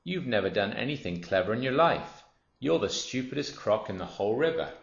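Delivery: lightly voiced, insulting crocodile; scornful smaller crocodile. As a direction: scold the boaster with relish.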